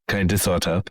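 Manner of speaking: lightly Finnish "kind of, sort of", syllables clipped; echoing in a faint Finnish accent. Acted. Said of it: "I'm doing a Finnish accent".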